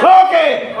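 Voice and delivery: high, loud laughing "Okay!"; gleeful laughing shout; laughing exclamation. Real, not acted. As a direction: burst out at the dodge, laughing. Catches the man's dodge.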